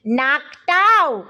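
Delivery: very drawn-out, aghast question; appalled, slow-motion query; gulping dismay. A narrator's reading. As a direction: stretch the word out in comic dismay. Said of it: "গোটা তিনেক খাবি খেয়ে বললেন".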